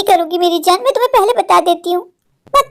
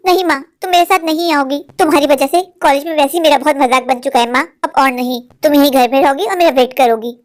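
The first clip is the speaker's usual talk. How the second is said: firm refusal; 5 semitones lower than usual. Acted. Daughter firmly refuses mother.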